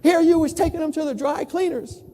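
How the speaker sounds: mildly indignant storyteller's impression of a shop lady; mock-scandalized Texan saleswoman; upset. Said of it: "she got all upset".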